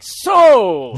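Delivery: duck voice. Retold or imitated. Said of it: "he's always like".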